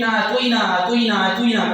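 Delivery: اعطینا stumbled over and repeated, garbled as "atoin"; mock fumbling recitation. Preacher mocking people who fumble انا اعطینا, stumbling repetition. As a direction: imitate someone stuck repeating اعطینا. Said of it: "کرتے رہتے ہیں".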